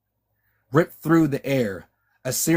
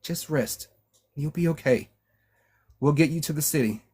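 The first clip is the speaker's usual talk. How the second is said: higher, urgent, tearful reassurance; rushing to comfort a dying friend; crackling, desperate comfort; 3 semitones higher than usual. A narrator's reading. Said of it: "her voice crackling".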